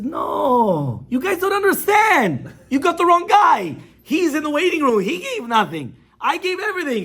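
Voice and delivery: high, loud, drawn-out wail of outrage; screaming protest. Retold or imitated. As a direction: plead at a scream that they have it wrong. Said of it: "and he starts screaming".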